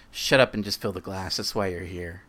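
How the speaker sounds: a hint of a snarl; spat words. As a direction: spit it out at the barman, only mildly. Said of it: "Dan spits these words".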